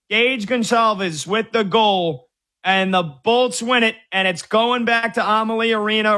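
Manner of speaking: high, slow, drawn-out goal call; excited. Real, not acted. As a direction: savor each word of the big goal. Calling the overtime goal.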